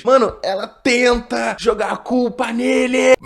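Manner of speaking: slow, high, loud outrage; indignant shout. Real, not acted. Fuming at the wife blaming her husband, shouting slowly. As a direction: yell it, appalled at her.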